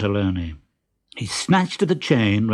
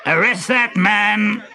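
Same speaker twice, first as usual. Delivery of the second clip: barked order; 9 semitones higher, slower than usual. A narrator's reading. Pantalone to the officers, barking an order. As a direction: bark at the police. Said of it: "barked Pantalone".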